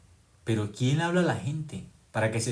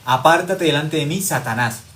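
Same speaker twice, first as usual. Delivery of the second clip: Jesus' rebuke; 3 semitones higher, 7 dB louder than usual. Retold or imitated. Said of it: "Jesús, ¿qué le dijo a Pedro".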